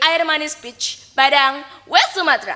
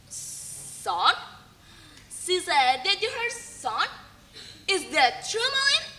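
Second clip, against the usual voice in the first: soft, breath-caught disbelief; shocked; 3 semitones higher, 9 dB quieter than usual. Acted. Wife learning the old woman is his mother, quietly shocked. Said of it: "Malin's wife was shocked".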